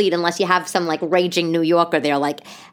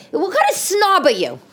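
imagined disapproving mother; 11 semitones higher than usual. Retold or imitated. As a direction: put on an incredulous mother. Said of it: "If I told my mother".

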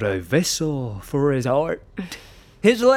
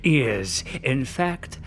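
Southern American shtick. Acted. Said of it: "that redneck shtick".

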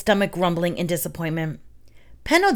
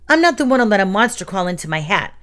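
fast, louder dismissive reply; quick retort; 4 dB louder, faster than usual. Acted. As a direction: rattle it off with a shrug. Goblin retorts, shrugging.

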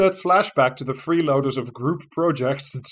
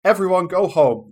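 louder, higher mock pronouncement; mock announcement; 4 semitones higher, 4 dB louder than usual. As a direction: proclaim it like the end of history.

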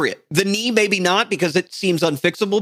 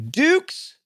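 incredulous; 11 semitones higher than usual. Real, not acted. Incredulous search.

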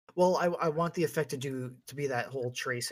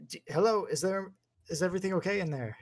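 calling through door; 5 semitones higher, 3 dB louder than usual. Acted. Calling through a door after banging.

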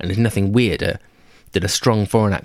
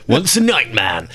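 mock-boastful cry, pitched way up; slower than usual. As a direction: crow it like a brag. Boasting joke on own answer.

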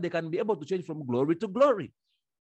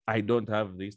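mimicking a complainer; 6 semitones lower than usual.

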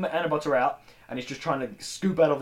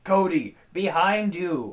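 higher, drawn-out call; urgent warning; 4 semitones higher, much slower than usual. Acted. Injured dog warning Cody, urgent call. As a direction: call out a mock alarm.

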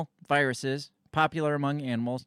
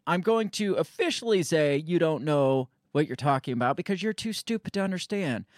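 mock condescension. Host mocking Fauci talking down to critics, mild sneer. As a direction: talk down like a smug expert. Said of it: "he's almost playing this whole".

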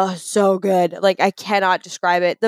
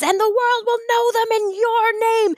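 retold Satan line; 13 semitones higher than usual. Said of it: "and says".

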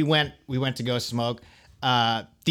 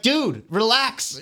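mock chill; 7 semitones higher, much slower than usual. Telling guards to calm down.

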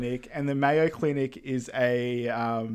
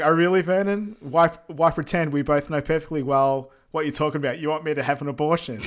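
mock dramatic wife; 3 semitones higher, 4 dB louder than usual. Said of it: "And it's like".

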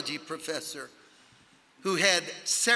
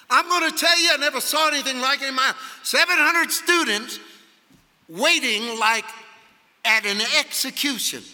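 raised, emphatic preacher storytelling; fervent pulpit delivery; preaching; 7 semitones higher, 5 dB louder than usual. Real, not acted. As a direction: build the tension for a big congregation. Preaches at full force.

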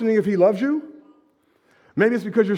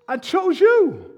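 laughing God; 4 semitones higher, slower than usual. Retold or imitated. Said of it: "he goes".

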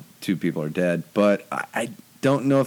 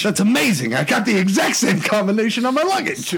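put-on president voice; 8 semitones higher than usual. Quoting the Spaceballs president.

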